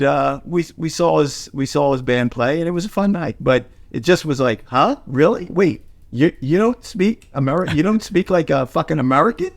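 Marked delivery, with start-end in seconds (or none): 4.7-9.5 higher-pitched, halting mock disbelief; retold bafflement. American dinner guest baffled by the actor's accent, mock disbelief. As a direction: stumble through a puzzled question, rising at the end.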